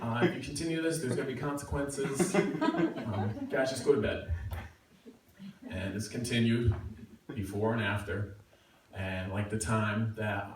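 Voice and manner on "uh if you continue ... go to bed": tired RA. Retold or imitated. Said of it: "The R A is like".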